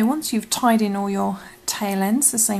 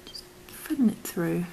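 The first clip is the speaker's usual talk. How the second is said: whispering. Acted. Whispered craft tutorial.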